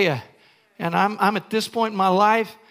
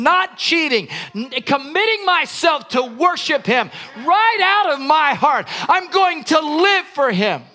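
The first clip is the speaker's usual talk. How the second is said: fervent preaching; 3 semitones higher than usual. Acted. Preaching at full force.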